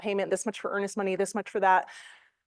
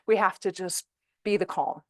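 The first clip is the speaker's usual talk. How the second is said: normal talking voice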